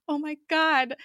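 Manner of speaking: high-pitched, aghast reaction; retold shock. Fan reliving the toolbox reveal, shocked. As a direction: relive the horrified gasp of a viewer.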